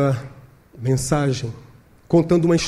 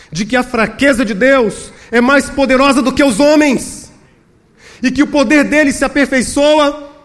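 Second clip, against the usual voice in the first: raised, emphatic pulpit voice; impassioned preaching; 9 semitones higher, 5 dB louder than usual. Real, not acted. Preacher exhorts believers about God's strength in weakness, impassioned. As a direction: drive each phrase home to the congregation.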